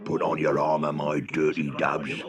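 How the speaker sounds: lightly voiced gang boss, low pitch; rally the troops like a villain, laughing after; bellowing villain. Big Tub Dub ordering the dubs to attack, bellowing villain. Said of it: "bellowed Big Tub Dub".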